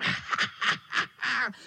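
high breathy cat snicker; wicked cat laugh. A narrator's reading. Cat snickers before leaping at the boys.

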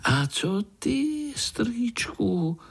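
very high slow question; a little one tugging at uncle; high eager childlike ask; curious child. Acted. Pája asks eagerly.

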